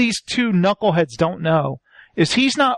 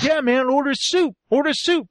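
higher-pitched insistent chant; pushy, put-on demand; mock demanding; 5 semitones higher than usual. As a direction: egg him on, imitating a hungry crew. Crew demanding food, acted.

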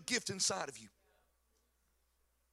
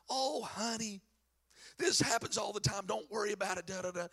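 soothing steward; 4 dB quieter than usual. Retold or imitated. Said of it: "he walks over and said".

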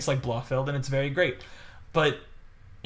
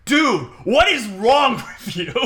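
louder, slow, laughing through it; exasperated call-out; 8 semitones higher, 7 dB louder, slower than usual. Retold or imitated. Audience member scolding the laugher, laughing exasperation. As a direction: call him out, amused disbelief. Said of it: "one guy just goes".

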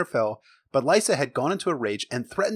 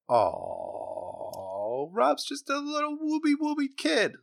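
cooing; 14 semitones higher, much slower than usual. Pretend. Cooing over Robb as little kid.

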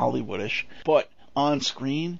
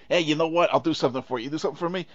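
put-on Bronx accent; 3 semitones higher, faster than usual. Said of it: "right out of the Bronx".

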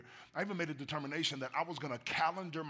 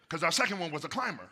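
laughing; 3 semitones higher, 7 dB louder, faster than usual. Real, not acted. Laughs about climbing child.

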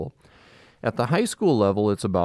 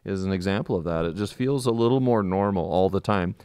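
muffled through a mask; talking behind a mask; through a face mask. Real, not acted. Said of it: "if we sound a little muffled".

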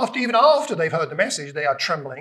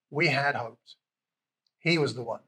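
softer, heartbroken echo; soft sad echo; 4 semitones lower, 7 dB quieter than usual. Retold or imitated. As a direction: let the words fade away. Disciples' dashed hope echoed.

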